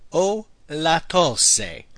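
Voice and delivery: very slow, deliberate repeat. Shown as a demonstration. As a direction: drag it out for learners. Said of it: "I have a cough".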